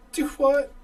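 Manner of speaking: high, loud Southern query; Southern "Do what?". Retold or imitated. Southerner hearing a Northerner phone, high mock bafflement. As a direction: mimic a Southerner who can't follow you. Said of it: "you don't have that accent".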